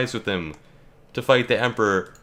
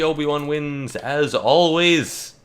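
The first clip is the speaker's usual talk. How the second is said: gloating announcer; 5 semitones higher, much slower than usual. Real, not acted.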